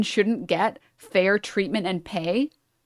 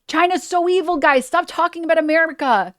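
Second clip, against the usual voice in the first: whiny, higher voice of a deflecting critic; mocking deflection; 5 semitones higher than usual. Mocking the critics who deflect to China, high whiny voice.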